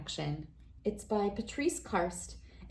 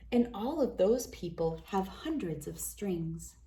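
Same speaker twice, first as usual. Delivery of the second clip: put-on reading to children. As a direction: read it like a bedtime picture book for kids. Reads picture book to children.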